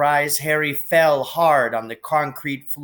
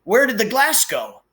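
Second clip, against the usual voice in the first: bewildered shock; 8 semitones higher than usual. Acted. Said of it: "he kept saying".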